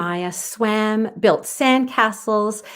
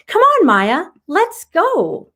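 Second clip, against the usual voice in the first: higher, louder call to a friend; shouting; 9 semitones higher, 5 dB louder, slower than usual. Acted. Aubrey calling Maya to play, shouting. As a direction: call her over across the beach. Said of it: "Aubrey shouted".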